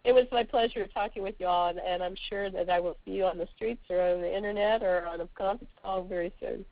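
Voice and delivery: hoarse, scratchy throat. Real, not acted. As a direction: talk through a sore throat. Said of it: "I apologize for my scratchy voice".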